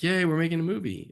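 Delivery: high, loud mock cheer. Filmmaker celebrating the studio deal, mock cheer. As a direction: gush like a naive filmmaker. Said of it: "you're like".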